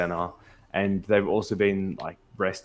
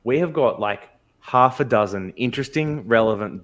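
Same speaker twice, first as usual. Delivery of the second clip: loud; 3 semitones higher, 5 dB louder than usual. Real, not acted. Protesting the topic choice.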